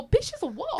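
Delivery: high, laughing mock shout; exasperated comeback breaking into laughter; laughing retort. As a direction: crack up while yelling it back.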